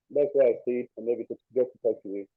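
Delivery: muffled, as through a hand. Real, not acted. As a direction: voice muffled, like a covered mic. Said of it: "you're a little bit muffled".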